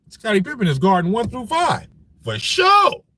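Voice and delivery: hyped shout. Real, not acted. Hyping Pippen to chat.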